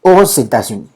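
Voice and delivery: "Aux États-Unis" de corrido, "os-etasuní"; alianza fonética. Shown as a demonstration. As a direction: haz sonar la x de "Aux" como s ante "États". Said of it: "entonces hacíamos una alianza fonética". (pronuncia "Aux États-Unis" ligado, como modelo de clase)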